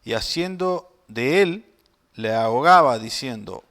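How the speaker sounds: measured, projected Bible reading; scripture reading. Acted. Preacher reads the parable of two debtors to congregation, scripture reading. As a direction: read the parable out clearly to a congregation.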